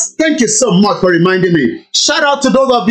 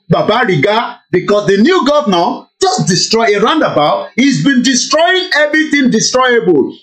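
ordinary talk, nothing marked

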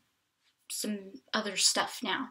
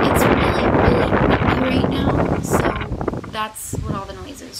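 raised voice over the wind, much louder; shouting over wind; 13 dB louder than usual. Real, not acted. Showing viewers the windy hilltop view, shouting over the wind. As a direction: push the words out loud against the gusts.

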